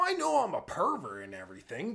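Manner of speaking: ordinary talk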